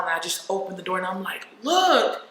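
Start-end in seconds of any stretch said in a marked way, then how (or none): 1.6-2.3 high, loud retold outburst; distressed cry. Daughter showing mom the blood, distressed cry. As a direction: cry it out in alarm, much higher.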